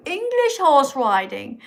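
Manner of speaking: sneering echo of the comment, stretched on English; mock the phrase back at them; mocking repeat. Mocking a viewer's comment in a sneer. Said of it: "Not that French kind".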